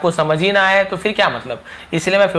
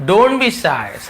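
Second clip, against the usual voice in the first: "Don't be shy" spoken very slowly, each word apart; slow demonstration; much slower than usual. Shown as a demonstration. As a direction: spell the sounds out slowly for a learner. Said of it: "ऐसे shy ऐसे पढ़ते हैं". ("Don't be shy" को बहुत धीरे, हर शब्द अलग करके बोलें)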